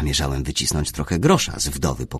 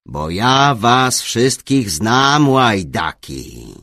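mild good-natured teasing, loud and drawn out; 6 semitones higher, 7 dB louder, much slower than usual. A narrator's reading. Bishop ribbing the inquisitor about rascals, good-naturedly. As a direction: jovially tease them, slowly, loud and high. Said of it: "stwierdził dobrodusznie".

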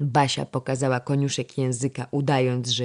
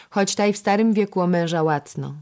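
louder, higher know-it-all remark; 5 semitones higher, 5 dB louder than usual. A narrator's reading. Young girl opining on royal matchmaking, know-it-all. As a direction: add it like a little sage. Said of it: "dodała przemądra Ewa".

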